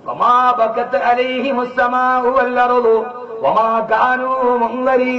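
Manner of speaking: slow chanted Quranic recitation. Acted. Preacher quotes the verse to his listeners, chanted slowly.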